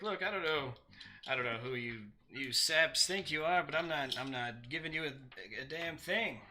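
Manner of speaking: put-on defiant bard with a light Mid-Atlantic accent; hint of old Mid-Atlantic American accent. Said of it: "He's a Mid-Atlantic bard".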